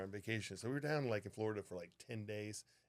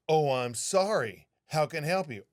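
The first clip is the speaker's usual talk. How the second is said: empathetic demo; 4 semitones higher, 6 dB louder than usual. Shown as a demonstration. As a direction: show how a caring attendant should sound. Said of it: "You be empathetic".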